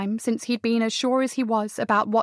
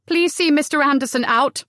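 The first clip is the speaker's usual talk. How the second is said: firm command; 4 semitones higher, 4 dB louder than usual. Acted. Commands servant, strong voice.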